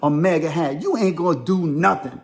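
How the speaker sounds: lightly acted confrontational dare; prison-tough defiance. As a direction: square up to them, mildly defiant. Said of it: "that prison comes out at me".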